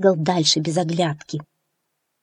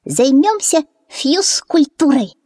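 put-on peeping baby chick; 8 semitones higher, 4 dB louder, slower than usual. A narrator's reading. Chick Fyu jokes.

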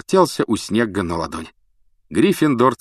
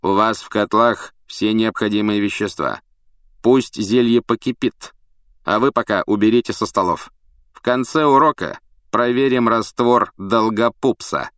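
stern teacher; 3 semitones higher, 3 dB louder than usual. Acted. Snape addresses the class.

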